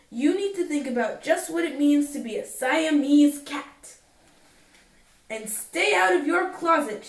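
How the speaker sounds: scolding mother. Acted. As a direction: lay down the law to a naughty kitten, firmer each line. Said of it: "The lecture went on and on".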